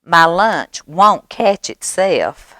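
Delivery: high, brisk little mouse voice; departing mouse. Acted. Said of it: "Mouse says".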